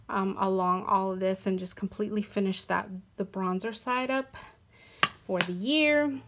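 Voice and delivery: breathless, short of air; winded, talking through breaths. Real, not acted. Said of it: "Sorry, I'm out of breath".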